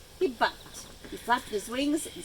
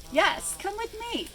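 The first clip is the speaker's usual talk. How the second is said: wheezed; 10 semitones higher than usual. A narrator's reading. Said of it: "wheezed the monkey".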